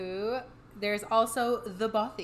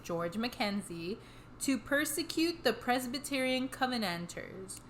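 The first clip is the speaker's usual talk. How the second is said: measured podcast read-aloud of history; scripted history narration; 4 dB quieter than usual. A narrator's reading. Telling the co-host the history behind the hauntings, measured narration. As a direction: read the history out steadily, phrase by phrase.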